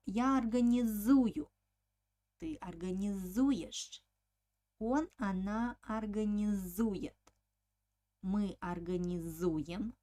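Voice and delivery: организую through организуют, each stressed on ЗУ; teacher's drill with long ЗУ in организую and its forms; stressed suffix У. Shown as a demonstration. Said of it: "the suffix u has an accent".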